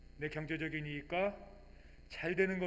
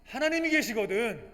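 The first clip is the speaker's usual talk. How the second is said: higher and louder, pressing each claim; fervent testimony; 9 semitones higher, 11 dB louder than usual. Acted. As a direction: testify with rising conviction. Believer answers with testimony. (높고 힘 있게 간증하듯)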